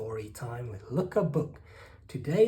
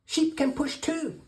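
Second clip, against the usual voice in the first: very high frog character voice; high storybook frog croak; 12 semitones higher than usual. A narrator's reading. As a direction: pipe it up as a helpful frog. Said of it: "croaks the frog".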